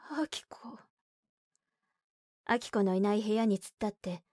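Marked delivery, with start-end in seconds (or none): 0.1-0.8 whispered name; breathy whisper of disbelief; 囁き声. A narrator's reading. 母が娘の名をささやく. (息だけで囁く)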